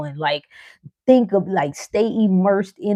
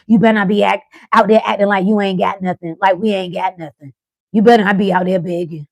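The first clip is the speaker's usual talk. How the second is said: louder, stern mama warning; mama's warning; 5 dB louder than usual. Retold or imitated. Mama in your head warning you not to beg, louder and stern. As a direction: warn like a strict mother. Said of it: "you hear your mama voice".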